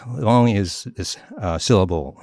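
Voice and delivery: ordinary talk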